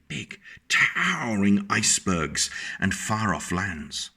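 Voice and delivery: put-on lilting read-aloud voice for a child; sing-song picture-book reading; storybook narration. A narrator's reading.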